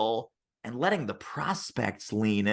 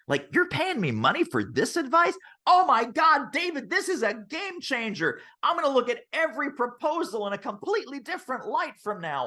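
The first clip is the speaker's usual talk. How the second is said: high, incredulous mock amazement; mock gushing, pitched well up; mock amazed; 10 semitones higher than usual. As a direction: parody the dazzled client, high and fast. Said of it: "I was like".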